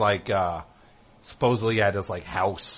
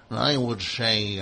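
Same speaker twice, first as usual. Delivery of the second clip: bad impression; slower than usual. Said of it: "Rich Little in full".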